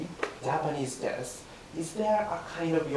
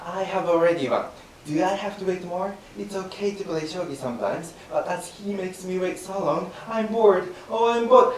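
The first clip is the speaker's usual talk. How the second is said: bored shogi player; 2 semitones higher than usual. Shown as a demonstration. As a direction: rush through it, pretending boredom. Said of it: "let me try again".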